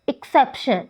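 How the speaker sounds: एक्सेप्शन as "ik-SEP-shun"; second-syllable stress. Shown as a demonstration. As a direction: put the force on सेप in एक्सेप्शन. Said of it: "वो शेप second syllable पर लगी है". (एक्सेप्शन के दूसरे syllable पर ज़ोर)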